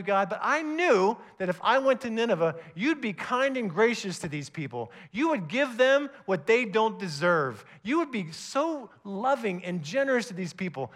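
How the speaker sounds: mild retold rant. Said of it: "Jonah goes off with God".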